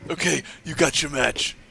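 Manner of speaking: mild mock giving-in; understated put-on wrestling boss; Triple H impression. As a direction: concede it once, lightly acted. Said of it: "you do the best, uh, Triple H".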